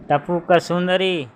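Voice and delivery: ટપુક સુંદરી called out high and slow, drawn out; calling from the cave. Acted. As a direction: jackal booming his coded call from inside the cave, slow and high. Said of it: "શિયાળ અંદરથી જવાબ આપે".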